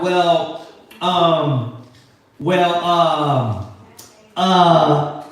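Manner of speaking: halting, stumbling "Well, um, well, um"; mock stammering. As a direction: act out fumbling for the verse. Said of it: "without stuttering".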